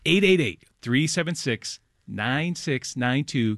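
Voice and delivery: phone number read out slowly and deliberately. Shown as a demonstration. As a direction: spell out the number group by group, with pauses. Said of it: "I'm gonna read it slower".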